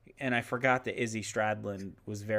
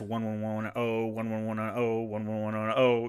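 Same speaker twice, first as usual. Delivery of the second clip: robot saying binary; 3 semitones lower than usual. Shown as a demonstration. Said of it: "You know when you hear them going".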